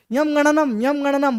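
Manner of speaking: lightly voiced nasal elder; nasal old man. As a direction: talk it through the nose like an old man. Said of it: "वो नाक में बोलने लगे".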